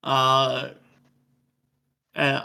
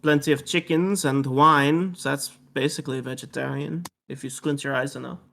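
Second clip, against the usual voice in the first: put-on French-accented character voice. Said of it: "said in a French accent".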